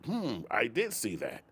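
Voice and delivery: drawn-out mock thoughtful voice; mock pondering. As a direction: ham up a smug busybody going hmm. Mocking accusers' thinking.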